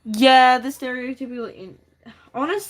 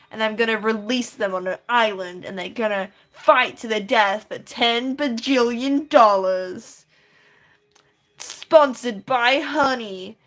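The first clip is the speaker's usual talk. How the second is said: Mister Beast impression; 5 dB louder than usual. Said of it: "what Mister Beast sounds like".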